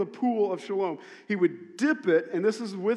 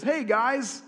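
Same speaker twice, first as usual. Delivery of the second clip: much higher and louder, eager; excited announcement; 8 semitones higher, 7 dB louder, slower than usual. Retold or imitated. Jesus revealing himself to the crowd, excited announcement. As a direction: build up to a big reveal. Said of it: "Jesus stands up and says".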